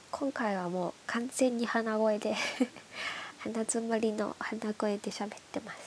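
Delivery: stuffy nose from hay fever; nasal voice. Real, not acted.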